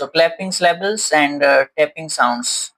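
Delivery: stretched-out teacher recap clapping syllables and tapping sounds; slow heading read. Shown as a demonstration. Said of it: "heading repeated".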